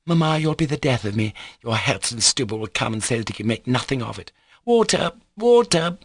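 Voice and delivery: high, exasperated pleading with Mamma; urgent cries rising sharply in pitch; frantic imperious daughter. Acted. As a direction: hurry her along dramatically. Lisa frantic at the wound.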